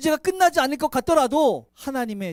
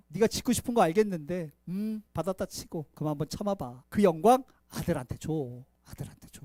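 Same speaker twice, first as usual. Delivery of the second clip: softer, lower, coaxing; God gently asking David to wait; gentle coaxing; 5 semitones lower, 4 dB quieter than usual. Acted. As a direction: gently talk him down.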